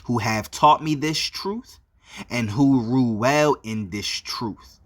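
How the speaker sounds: slow, measured opening address; formal salutation. Real, not acted. Preacher greets the scattered nation of Israel, slow formal salutation. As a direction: deliver a solemn greeting in drawn-out phrases.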